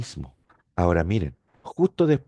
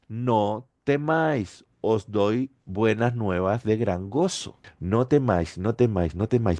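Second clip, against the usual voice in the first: gentle reassurance; 2 semitones lower than usual. Acted. Angels comforting the shepherds.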